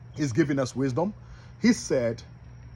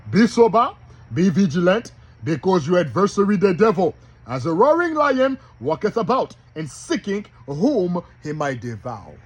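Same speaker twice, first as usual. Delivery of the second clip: louder, higher Bible reading; scripture declamation; 4 semitones higher, 5 dB louder than usual. Acted. Preacher quotes a warning about the devil, declaimed. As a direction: declaim the verse with force.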